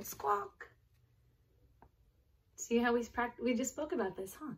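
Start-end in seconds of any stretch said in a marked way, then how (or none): 0.0-0.7 squawk. Pretend. Reading flamingo sounds to kids.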